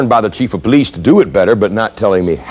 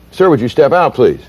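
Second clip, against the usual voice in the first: polite request; 3 semitones higher than usual. Shown as a demonstration. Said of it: "asked him politely".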